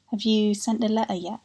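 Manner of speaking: "letter" and "yet" with t's swallowed in the throat; Black Country glottal "letter yet"; glottal stops. Shown as a demonstration. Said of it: "Like that".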